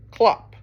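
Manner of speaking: one loud, high clop; horse hooves. Acted. Reader reviewing horse feet with children, single clop. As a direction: clop like a hoof. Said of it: "He can sound like horse feet".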